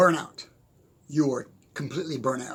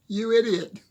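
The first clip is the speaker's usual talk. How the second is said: higher, louder, mock exasperated scolding of himself; mock self-scolding; 7 semitones higher, 7 dB louder than usual. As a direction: play-act calling yourself an idiot. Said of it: "I'm going".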